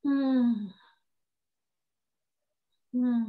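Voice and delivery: a voiced sighing hum of a sick person; sick person's weary hum; demo sigh. Shown as a demonstration. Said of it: "they sigh actually".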